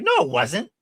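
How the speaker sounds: high-pitched mock argument; hammed-up, high quarrelling voice; imitated trash talk. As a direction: fire back as a bitter accuser. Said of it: "she's talking shit".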